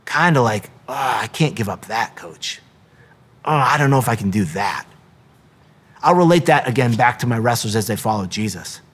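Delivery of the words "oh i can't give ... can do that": reluctant. Acted. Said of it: "I'll see them kinda like".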